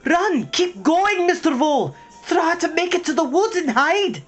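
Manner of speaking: put-on urgent high shout in an Irish accent; calling out. Young mouse urging Mister Vole to flee, calling out. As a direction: yell to hurry someone to safety. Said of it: "and calling out".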